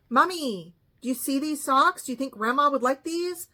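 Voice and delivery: lightly voiced baby-talk daughter asking her mother; a hint of a sweet childlike plea; childish grown woman. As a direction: imitate a grown woman sounding like a little girl. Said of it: "that's exactly how she said it".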